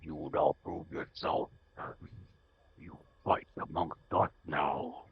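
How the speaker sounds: put-on guttural Liverpool accent, dragged out; deep guttural Liverpool voice. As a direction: lizard warlord growling in a Liverpool accent. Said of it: "really deep, guttural, freaking Liverpool voice".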